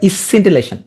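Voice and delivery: "ইসসিন্টিলেশন" with an added opening "ইস"; spelling pronunciation. Shown as a demonstration. Teacher telling students to pronounce it so, extra first syllable. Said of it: "উচ্চারণ করবা".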